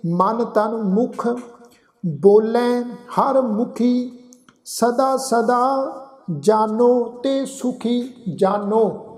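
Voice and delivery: very slow, drawn-out Gurbani recitation; scripture recitation. Acted. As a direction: recite each phrase slowly, holding the long vowels. Recites scripture between explanations.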